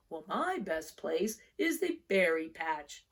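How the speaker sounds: slow, different bear voice; a bear telling his friend about berries. Acted. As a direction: take it slow like a big bear.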